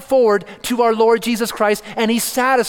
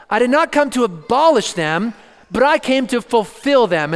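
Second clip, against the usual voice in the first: higher pitch, punching "abolish" against "fulfill"; emphatic contrast; 4 semitones higher, 3 dB louder than usual. Shown as a demonstration. Preacher quoting Jesus to show the contrast, emphatic contrast. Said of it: "must be an emphatic contrast".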